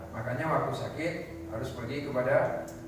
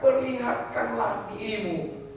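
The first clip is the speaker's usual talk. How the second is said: Jesus commanding; 10 semitones higher, slower than usual. Acted. Preacher voicing Jesus' command.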